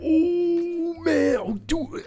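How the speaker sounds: very high, put-on gushing; overdone fanboy amazement; mock awed fan. Young fan as Sauron comes in, mock awestruck. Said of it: "he'd be like".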